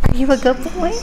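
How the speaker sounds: gentle high puppy praise; talking to a dog. Real, not acted. Repeat, softer.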